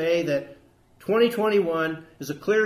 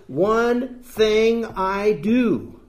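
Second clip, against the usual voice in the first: slow, weighty, every word leaned on; intense Paul quote; 3 semitones higher, 4 dB louder, much slower than usual. Retold or imitated. Preacher voicing Paul's single aim to the congregation, slow and intense. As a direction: press it out like Paul's single-minded vow. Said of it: "And Paul was intense".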